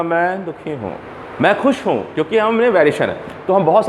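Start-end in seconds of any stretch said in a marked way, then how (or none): 0.0-2.0 softer sad line, then a lifted happy one; varied tones. Shown as a demonstration. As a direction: give each feeling its own tune. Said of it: "जब मैं इसमें tones को मिलाता हूँ". (सुर बदलकर, दुखी धीमा और खुश ऊँचा)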